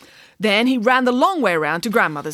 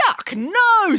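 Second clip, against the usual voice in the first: wolf voice; 11 semitones higher, 4 dB louder than usual. Acted. Wolf disgusted.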